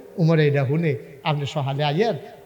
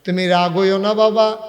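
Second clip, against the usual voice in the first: louder acted plea, slightly raised; tearful pleading; 4 semitones higher, 6 dB louder than usual. Woman begs Omar not to be angry, tearful plea. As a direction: begin pleading, voice lifting. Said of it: "মহিলা কান্দে আর কয়".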